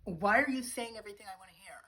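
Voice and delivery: loud, mock-exasperated yell; exasperated shout. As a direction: cry out in playful despair. Exasperated cry at his sweet talk.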